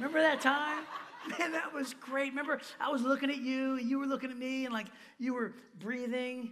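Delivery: high, mock-nostalgic, gushing, mocking tone.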